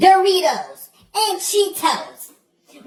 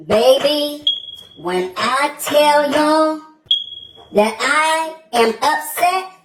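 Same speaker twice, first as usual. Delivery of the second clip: slow, much lower, drawn-out words; dramatic slow outrage; 5 semitones lower, slower than usual. Acted. Satirical parent telling viewers how upset she is, slow and low. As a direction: stretch every word like the anger is too big.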